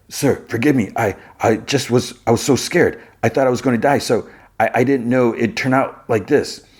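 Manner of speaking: acted scared apology; timid pleading. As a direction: plead for forgiveness, stumbling over the words. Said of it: "While he's pleading".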